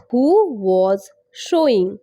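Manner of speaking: slow words with pauses between; slow teaching pace. Shown as a demonstration. Teacher breaking down a phrase for learners, slowly. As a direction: say it word by word for learners. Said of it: "অনেক আস্তে আস্তে".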